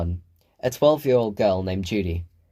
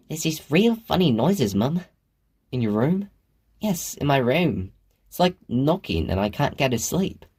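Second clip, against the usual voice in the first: a higher, lightly voiced sleepy little girl; young girl voice; 5 semitones higher than usual. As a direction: sound like a tired kid.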